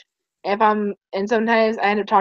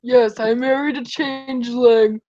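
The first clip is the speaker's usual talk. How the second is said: Shining Armor voice; slower than usual. Pretend. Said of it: "Shining Armor voice continued".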